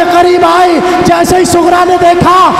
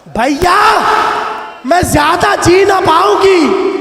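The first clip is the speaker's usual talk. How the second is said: lament recitation. Acted. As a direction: mourn the sister's fear of dying. Repeated plea, lament. (پُرسوز بلند فریاد)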